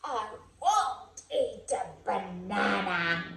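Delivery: grumpy chimp refusing. Acted. Chimp's final low refusal.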